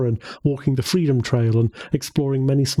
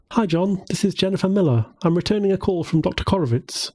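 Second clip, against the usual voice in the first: put-on raised, bright young woman; 5 semitones higher than usual. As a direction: lift the pitch for Jennifer. Jennifer on the phone.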